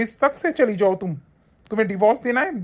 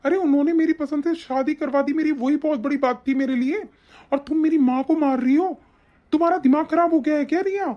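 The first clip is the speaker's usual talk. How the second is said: high, indignant scolding; angry confrontation; 6 semitones higher than usual. Acted. Husband accusing wife of hurting his mother, angry. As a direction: berate in raised-pitch outrage.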